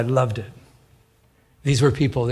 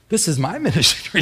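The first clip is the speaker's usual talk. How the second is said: laughing. Retold or imitated. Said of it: "my flesh was saying".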